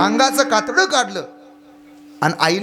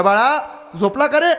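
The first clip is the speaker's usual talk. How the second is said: put-on old mother calling; 5 semitones higher than usual. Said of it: "म्हातारीनं पोराला आवाज दिला".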